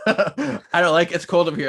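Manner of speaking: slow, giggly shiver; spooked and shivery. Retold or imitated. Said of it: "She's like".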